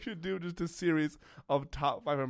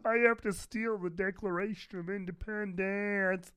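slow, higher, hammed-up Cage line; Nicolas Cage impression; 7 semitones higher than usual. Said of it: "I nailed it".

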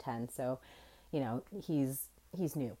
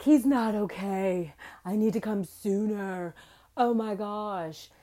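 retold sobbing plea; 4 semitones higher, 5 dB louder than usual. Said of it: "I'm sobbing on the floor".

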